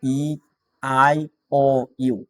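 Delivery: slow, drawn-out vowel drill for the class to echo; call-and-repeat vowels. Shown as a demonstration. Teacher leading the class in reciting the vowels, slow drill. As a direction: spell out each vowel slowly so students repeat. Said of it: "আমার সাথে সাথে বলো".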